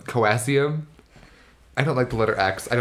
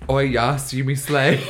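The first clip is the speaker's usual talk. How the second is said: Rey impression; 3 dB louder, slower than usual. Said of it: "Rey is literally".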